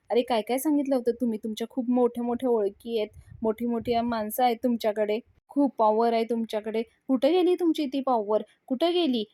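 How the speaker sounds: lightly acted angry taunt; mock shouting. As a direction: taunt him, half-hearted yell. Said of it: "असं म्हणून तो ओरडत असतो".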